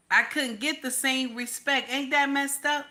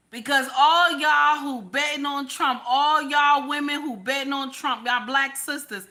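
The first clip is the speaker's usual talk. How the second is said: calling out. Real, not acted. Calling out to voters.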